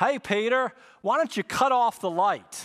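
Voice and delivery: poor put-on Southern accent. Retelling his southern roommate talking at bedtime, bad impression of southern roommate. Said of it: "this is the worst impression of him".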